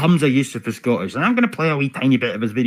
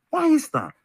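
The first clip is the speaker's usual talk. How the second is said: "Why is that?" asked much higher and pointed; pressing harder. Real, not acted. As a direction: push the repeat up high to demand an answer. Repeats the question, pressing harder.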